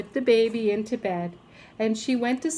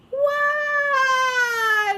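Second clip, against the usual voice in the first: very high alarmed shriek; shocked principal; 4 dB louder than usual. A narrator's reading. Principal sees the enormous needle, shrieking high. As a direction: yelp in horror.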